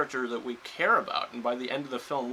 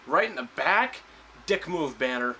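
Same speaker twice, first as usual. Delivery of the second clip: mock Tony Stark; 2 semitones higher, 4 dB louder than usual. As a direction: toss off the jab in a lightly put-on voice. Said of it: "and he goes".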